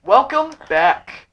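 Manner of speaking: announcer voice. Pretend. Mock show intro after cut.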